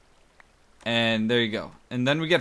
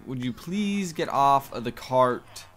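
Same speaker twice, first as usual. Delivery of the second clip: slow, deliberate polite request; asking nicely; slower than usual. Real, not acted. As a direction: ask nicely, holding back annoyance. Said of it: "I'm asking you nicely".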